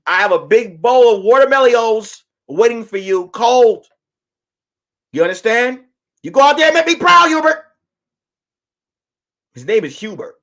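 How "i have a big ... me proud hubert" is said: excited wife. Retold or imitated. Wife voiced, rising excitement.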